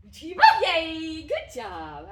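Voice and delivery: bursting, high, loud praise for the dog; squealing delighted dog praise; excited praise. Real, not acted. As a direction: cheer him on like he just won. Praise after game win.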